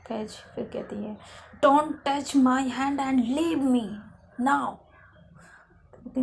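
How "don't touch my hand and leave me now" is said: slow stern order. Acted. Faiz ordering Lovely off.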